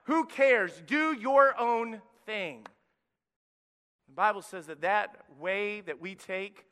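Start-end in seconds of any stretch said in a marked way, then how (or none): 0.1-2.7 louder, slow coaxing tempter; devil's voice urging, drawn out; tempting Satan. Retold or imitated. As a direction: lure them in, slow and loud. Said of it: "And he says".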